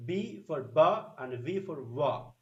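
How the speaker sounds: slow, "ba" with closed lips, "wa" rounded; contrasting B and V. Shown as a demonstration. Teacher contrasts B and V for learners, "ba" then "wa". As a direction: set "ba" against "wa" deliberately. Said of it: "So there is a difference".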